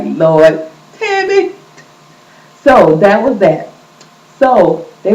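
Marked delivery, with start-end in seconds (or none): 0.0-1.5 exasperated. Retold or imitated. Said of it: "I was like".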